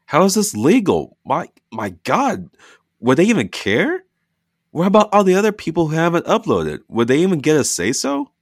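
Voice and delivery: high, loud frantic questions; loud, high, upset mother; alarmed outrage. Acted. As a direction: fire off panicked questions. Dina panicking over legality.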